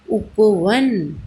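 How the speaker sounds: उपवन stretched very slowly; slow blending. Shown as a demonstration. Teacher to children, blending उपवन very slowly. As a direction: draw उपवन out for the class. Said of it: "teacher blends the word".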